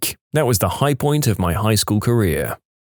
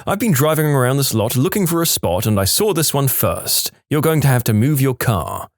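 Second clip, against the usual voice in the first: entitled lady; 3 semitones higher than usual. Retold or imitated. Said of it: "She says".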